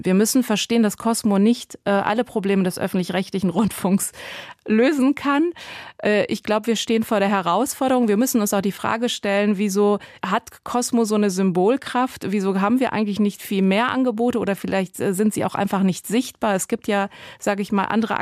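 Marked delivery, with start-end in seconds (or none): none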